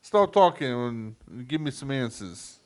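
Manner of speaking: mock mobster interrogation in New York accent. Mobster questioning his passenger in the car, mock New York accent. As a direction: burst in loud, then New York tough guy. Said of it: "trying to do New York accent".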